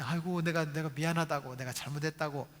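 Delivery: lightly acted sheepish husband saying sorry; a hint of a henpecked dad apologizing; apologetic father. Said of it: "아빠가 말하는 모습이".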